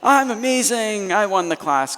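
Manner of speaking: mock self-satisfied boast; smug boast. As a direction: crow about the win like a proud kid. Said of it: "And I'm like".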